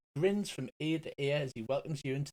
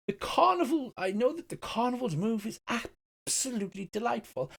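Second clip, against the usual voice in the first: higher, gushing delivery; flamboyant elf; 8 semitones higher than usual. Acted. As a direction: swoon over every word. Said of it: "flamboyant gesture".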